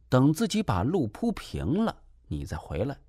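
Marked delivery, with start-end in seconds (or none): none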